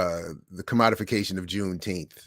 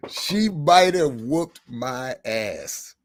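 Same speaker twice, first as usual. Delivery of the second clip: laughing; 3 semitones higher, 4 dB louder, much slower than usual. Real, not acted. Laughing aside after the laugh.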